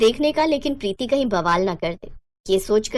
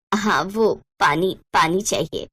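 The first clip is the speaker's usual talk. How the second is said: flustered hesitation; 4 semitones lower than usual. Acted. Mother-in-law caught listening, awkwardly asking for water. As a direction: fumble for an excuse.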